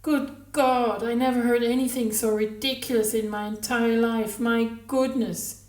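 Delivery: high, loud, incredulous exclamations; a woman floored by something ridiculous; utterly floored. A narrator's reading. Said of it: "She seemed utterly floored".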